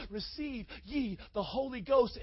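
very soft, reverent Jesus; hushed solemn quote. Acted. Jesus giving the disciples the Holy Ghost, very softly. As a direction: drop right down to a hushed blessing.

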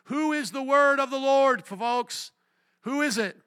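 high, loud repeated demand; preacher's shouted challenge. Real, not acted. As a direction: call out to the crowd for an answer. Preacher demanding congregation answer.

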